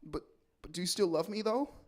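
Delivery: small, soft voice rising at the end; meek, lightly acted tearful question; mock tearful plea. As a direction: plead softly, as if in tears. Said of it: "in tears".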